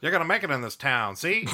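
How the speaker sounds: lightly voiced old-timey character; a hint of forties fast-talker; forties old man. Joining in on promising Fred success, mock forties voice. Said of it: "Old Man from the forties podcast".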